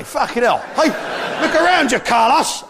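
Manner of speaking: exasperated shout at an imagined Spaniard; mock rant.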